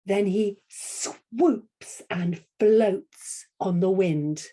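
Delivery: very slow, stretched "swoops" and "floats"; long drawn-out storytelling line; swooping and floating. Shown as a demonstration. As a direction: model it slowly, gliding through each word. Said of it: "All right, copy me".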